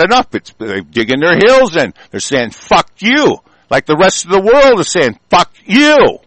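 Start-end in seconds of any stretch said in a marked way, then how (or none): 2.5-3.4 raised, defiant retort; defiant crowd voice. Retold or imitated. People digging their heels in, defiant. Voicing people who are fed up. 5.3-6.2 higher, drawn-out angry retort; defiant shout. Retold or imitated. Rest of the world answering back, defiant shout.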